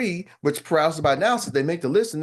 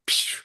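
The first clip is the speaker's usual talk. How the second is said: mock laser sound; 4 dB quieter than usual. Shield deflecting compliment.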